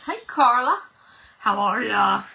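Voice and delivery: zany put-on hello voice; crazy voice. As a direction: sing out a silly hello. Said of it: "Do you like my crazy voice?".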